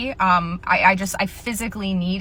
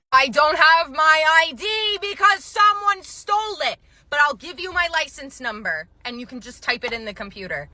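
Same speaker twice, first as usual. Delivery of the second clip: angry customer; 5 semitones higher than usual. Retold or imitated. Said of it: "how angry this woman was".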